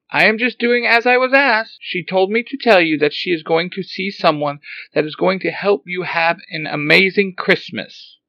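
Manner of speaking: high, loud frantic robot cry; excited robot. Acted. Alpha startled to see Zordon walking, high excited robot. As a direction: fret like a flustered little robot.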